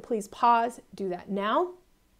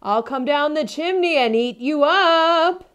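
loud, slow, higher wolf threat; wolf calling down; 6 semitones higher, 11 dB louder, slower than usual. Acted. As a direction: call down the chimney menacingly. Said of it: "He called".

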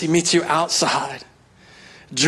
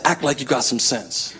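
mom scolding; 4 semitones lower, 5 dB quieter than usual. Retold or imitated. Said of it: "my mom used to slap me".

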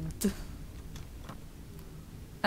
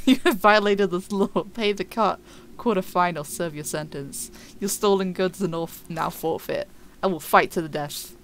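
mock guard. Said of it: "That was a really good introduction".

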